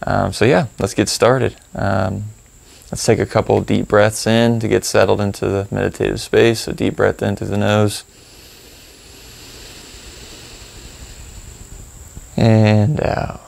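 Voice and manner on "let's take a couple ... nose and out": calm breathing cues with long pauses; guided meditation. Acted. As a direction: lead the breath unhurriedly, drawing out "and out".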